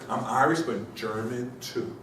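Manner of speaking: imitating Connor with German drawn out slow; slow, weighted German too; stress on German. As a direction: lean hard on German, stretch it out. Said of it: "He put the emphasis on German too".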